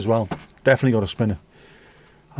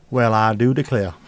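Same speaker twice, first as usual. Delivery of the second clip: put-on deep South accent; 3 semitones lower than usual. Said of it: "Start speaking with a South, deep South accent".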